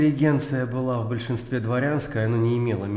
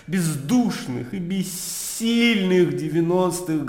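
raised pitch, rhetorical denunciation; indignant orator in full flow; impassioned scorn; 4 semitones higher than usual. Acted. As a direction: denounce them in a mounting tirade. Scornful tirade against the intelligentsia.

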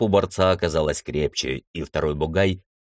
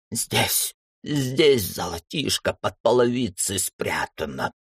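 mumbling; 4 semitones higher, slower than usual. Acted. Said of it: "забубнил ростовщик".

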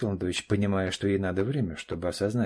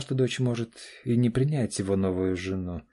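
plain reading voice

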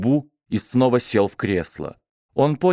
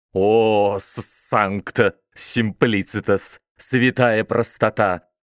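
насмешливый смех; slower than usual. Acted. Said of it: "громко захохотал".

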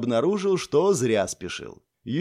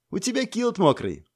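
laughing; 7 semitones higher than usual. A narrator's reading. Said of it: "засмеялась Лана".

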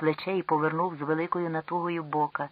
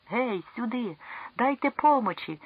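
much higher urgent cry; alarmed call for help; 8 semitones higher than usual. Acted. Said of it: "гукнув тут до мене стривожено Ел".

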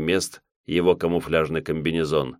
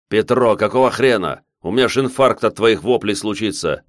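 yelling over helicopter; 3 semitones higher, 3 dB louder than usual. Acted. Pilots shouting in helicopter.

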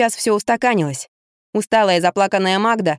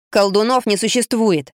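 flat, no-argument statement; 2 semitones higher than usual. Acted. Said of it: "безапелляционно заявил Кирюшка".

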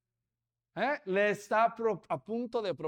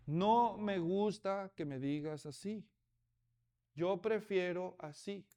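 firm request; 4 dB quieter than usual. Retold or imitated. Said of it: "dijo aquella".

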